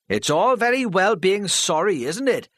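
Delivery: loud, high scornful shout. Acted. A heckler shouting down her apology, loud. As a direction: throw it back at her. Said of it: "Charlie shouted".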